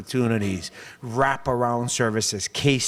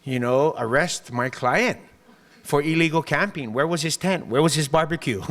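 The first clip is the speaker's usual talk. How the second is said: mock outrage; 3 semitones higher than usual. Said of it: "I said".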